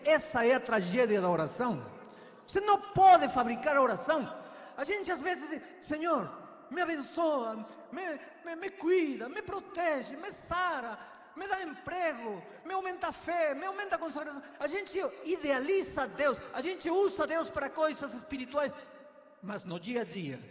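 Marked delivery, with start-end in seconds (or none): 5.8-14.4 higher, pleading demands rising to shouts; demanding prayer list. Pretend. Pastor mocks a congregant's wish-list prayer, pleading shouts. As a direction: fire off wishes at God, half-yelling.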